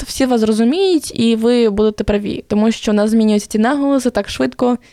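usual speaking voice

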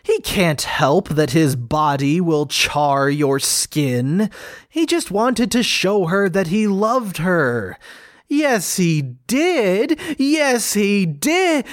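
very high, slow cooing pet talk. Real, not acted. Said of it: "I don't know what came over me".

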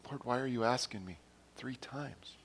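softly voiced private question; talking to himself. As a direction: imitate someone quietly questioning inwardly. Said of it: "saying to himself, he's like going".

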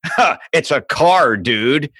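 slow "car" with a hard R; mock local kid, drawing out CAR with its R; mimicked hard R. Arizona kid correcting the newcomer, slow hard-R "car". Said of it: "And they're like".

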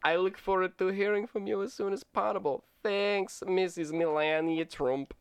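hammed-up Russian video game villain; cheesy Russian bad-guy accent. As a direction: read it like an eighties-movie Russian bad guy. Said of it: "Russian video game bad guy".

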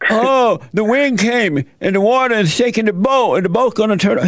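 high, rushed worried explanation; retelling their fright with pitch up; panicked disciples. Retold or imitated.

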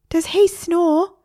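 high, slow parrot question; a parrot worried about snoring, high and slow; wary parrot. A narrator's reading. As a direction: ask it with dread. Parrot asking warily.

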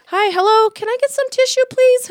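high, insistent call for service; retold pointed, high-pitched request; calling for attention. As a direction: pitch it up to get noticed. Calling to woman ignoring her.

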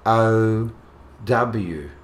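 slow, letter by letter; spelling it out. Shown as a demonstration. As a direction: spell each letter out slowly. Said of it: "Can you spell it?".

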